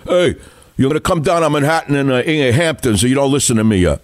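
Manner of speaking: mock tough-guy growl, fast; gravelly Cuomo impression. Host mocking Cuomo's tough talk, gravelly mock mafia voice. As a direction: ham up a film-school mafia guy. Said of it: "in that gravelly voice".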